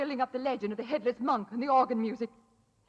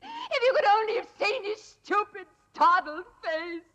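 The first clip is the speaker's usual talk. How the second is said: gleeful, higher, laughing through the words; mad laughter; 5 semitones higher, 3 dB louder than usual. Acted. Madwoman boasting of the stabbing, laughing wildly. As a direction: relish the memory, giggling madly. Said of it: "she's mad as a hatter".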